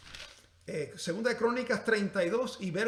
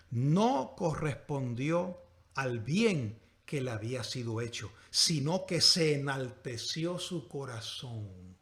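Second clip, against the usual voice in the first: slow, lowered verse reading; solemn scripture reading; 4 semitones lower, slower than usual. Real, not acted. Preacher reading of God's anger at Ezequías, solemn scripture reading. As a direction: stretch each phrase of the verse gravely.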